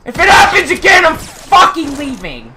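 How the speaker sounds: fast furious shout; yelling threat at the game; raging gamer. Real, not acted.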